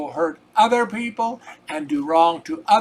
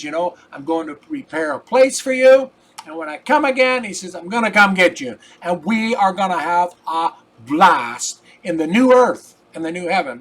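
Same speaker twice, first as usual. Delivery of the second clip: preached promise; 6 dB louder than usual. Retold or imitated. Jesus promises his followers a place, proclaimed loudly.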